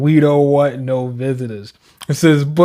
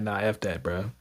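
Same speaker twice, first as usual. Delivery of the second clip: low mock dismissal; 8 semitones lower, 9 dB quieter than usual. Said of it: "They're like".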